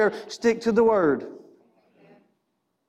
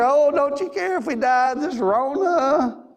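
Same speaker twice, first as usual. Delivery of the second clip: mock panic; 5 semitones higher, slower than usual. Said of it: "But we're the same way, in fear".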